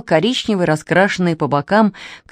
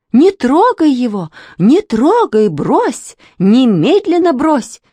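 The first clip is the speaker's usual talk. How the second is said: higher, louder panicked command; shouting; 6 semitones higher, 5 dB louder, slower than usual. Acted. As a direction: yell at the boy to drop the snake. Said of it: "закричала Глафира Андреевна". (громкий испуганный крик, выше и громче)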